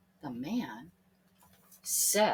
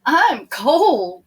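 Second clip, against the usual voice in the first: shivery high plea; cold complaint; 6 semitones higher, 13 dB louder than usual. Acted. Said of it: "said Thomas".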